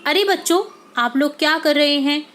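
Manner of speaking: put-on a gardener catching kids at the mango tree, calling out. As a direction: hail the children like a gardener spotting them. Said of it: "माली".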